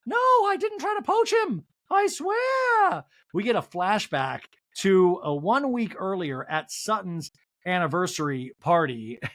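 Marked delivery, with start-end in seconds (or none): 0.1-3.0 very high, louder mocking voice; high catty mockery; Dorit impression. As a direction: sneer at the outfit in falsetto. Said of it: "Dorit goes".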